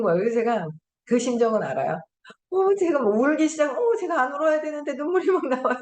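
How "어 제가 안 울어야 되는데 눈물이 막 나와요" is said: high mock-tearful apology; light hammed-up tearful voice; imitating a tearful presenter. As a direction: play someone apologizing through tears. Quoting a presenter crying.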